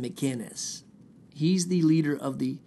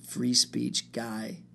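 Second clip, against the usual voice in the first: drawn-out, slow free speech guy; slow mock boast; 3 semitones lower, much slower than usual. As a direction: stretch free speech out slowly, smugly. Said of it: "because I go".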